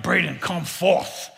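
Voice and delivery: slow, mock-solemn summons to a child; old-school biblical command. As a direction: play at King James grandeur, drawn out. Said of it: "I went old school".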